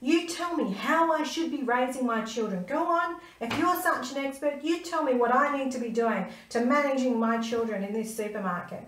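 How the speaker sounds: a mother squaring up, voice climbing; challenging him. Retold or imitated. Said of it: "And I said to him".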